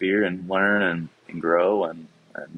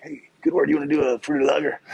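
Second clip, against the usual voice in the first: higher-pitched playful mock pitch; joking but serious; 8 semitones higher, 3 dB louder, faster than usual. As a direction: pitch it half in jest, half meaning it. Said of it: "in a joking but also serious way".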